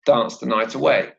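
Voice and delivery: "dance" stressed, "night away" linked and falling. Shown as a demonstration. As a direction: hit "dance", then join "night away" as nigh-taway. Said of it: "a stress on the word dance".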